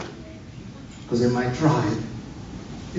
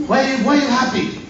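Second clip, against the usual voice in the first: higher, quicker imitated question; mock puzzled, pitched up; puzzled questioner; 9 semitones higher, faster than usual. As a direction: lightly act out a puzzled friend asking. Acts puzzled friends questioning him.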